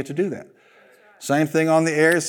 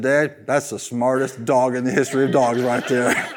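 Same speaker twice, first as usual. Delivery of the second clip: speaking through laughter; amused, laughing line. Retold or imitated. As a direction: chuckle out the words to dad. Laughs retelling his remark to dad.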